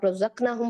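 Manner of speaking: रज़क़नाहुम with a short one-beat ना; quick ना in रज़क़नाहुम, shown as wrong; wrong short vowel. Shown as a demonstration. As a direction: skim the ना of रज़क़नाहुम as a mistake. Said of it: "नून को एक जबर एक हरकत".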